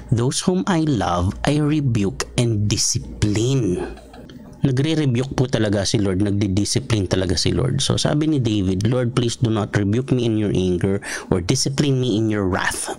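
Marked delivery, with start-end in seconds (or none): 0.1-4.0 scripture read slowly and gravely; slow solemn quote. Shown as a demonstration. Pastor quoting Revelation to the congregation, solemn. 8.9-12.9 hushed, breathy prayer whispered to the Lord; whispered plea. Acted. Pastor voicing David, whispering his plea to the Lord.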